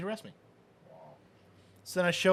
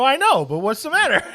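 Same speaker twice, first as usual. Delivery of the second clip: laughing through it; 12 semitones higher, 12 dB louder than usual. Retold or imitated. Laughing while retelling.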